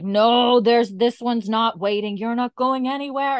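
high, loud imitation of a labouring wife; hammed-up frantic order; mock urgent insistence. Wife tells husband he must stay, urgent insistence.

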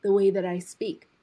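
slow, deliberate retold quote; measured, careful pacing; speaking very slowly. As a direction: take each word slowly and carefully. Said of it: "speak very slowly".

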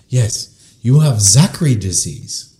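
mock-Asian doctor giving a diagnosis; bad Asian accent. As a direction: announce it in a put-on Asian accent. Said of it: "sorry for my worst Asian accent".

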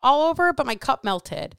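a hint of her son in a fluster; teen son blurting about the microwave, mild mock panic; voicing her son. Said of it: "came into my office like".

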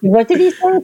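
laughing question; chuckling while asking. Real, not acted.

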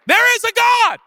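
loud, high triumphant shout; preacher-style joyful proclamation; proclaiming. Acted. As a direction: shout it like a revelation.

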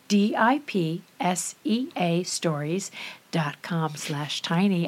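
slow, soft sultry ad read; sexy voice. Acted. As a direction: purr the web address slowly. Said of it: "I have to use the Dipsea voice".

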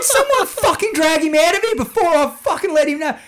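high and loud, laughing through it; telling the workmates off, loud and laughing; laughing mock threat. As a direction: pretend tough guy cracking up.

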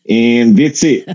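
deliberate mock Aussie with long pauses; Australian accent. Australian passenger judging the comedian's act, mock Australian accent. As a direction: deliver a blunt Aussie verdict. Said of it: "I apologize to my Australian listeners".

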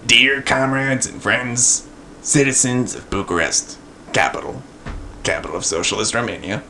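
lightly voiced bored dictator reading; bored monotone. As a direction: drone the speech flatly, bored. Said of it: "in a bored and monotone voice".

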